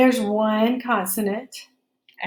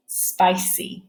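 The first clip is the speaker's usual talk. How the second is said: whispering. Shown as a demonstration. Teacher whispers word again.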